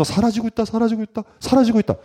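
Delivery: lightly voiced repeated moan; mock lament. Person at the mirror fretting over lost youth, mock lament. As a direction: chant it like a mocking whine.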